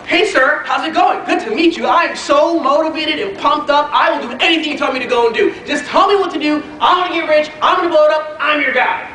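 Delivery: eager, pumped-up newcomer, mildly acted; imitating his own fired-up younger self. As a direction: rattle it off like a keen new recruit. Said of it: "I'm so fired up".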